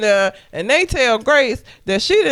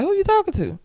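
retold calm question, higher pitched; calm, neutral voice; 11 semitones higher, faster than usual. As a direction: ask it mildly, imitating her neutral tone. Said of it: "in a very, very calm neutral voice".

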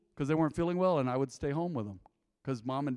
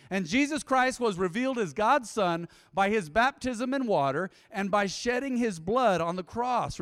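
raised-pitch preacher's reading; scripture reading; 5 semitones higher than usual. Acted. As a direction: read the verse out to the congregation. Reads scripture to congregation.

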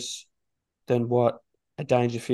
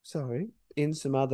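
dropped much softer; quieter after being told off; 6 dB quieter than usual. Real, not acted. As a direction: pull the volume right down. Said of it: "Stop yelling at me".

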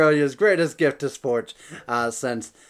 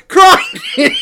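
put-on huge high "crikey" in a laughing Australian accent; over-the-top Australian accent; 12 dB louder than usual. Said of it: "an Australian accent".

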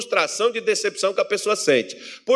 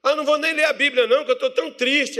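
higher-pitched put-on moping; mock whining believer; 5 semitones higher than usual. Sad believer refusing to read the Bible, mock whine.

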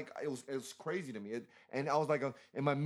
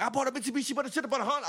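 much higher, a hammed-up sing-song church voice; mocking churchgoers; 10 semitones higher, faster than usual. Teen mocking the strange church members, squeaky high. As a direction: mimic the congregation in a silly high voice. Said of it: "They were like".

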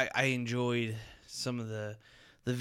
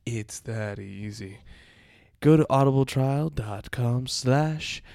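put-on southern accent; 7 dB louder than usual. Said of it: "southern accent".

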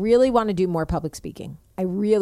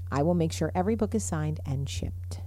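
whispering; 3 semitones lower, 5 dB quieter than usual. Real, not acted. Whispered promise.

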